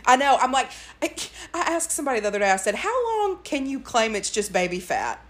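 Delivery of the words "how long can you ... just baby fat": slow question broken by laughter; laughing through the words. Real, not acted. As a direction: ask it while cracking up. Joking about baby fat, laughing.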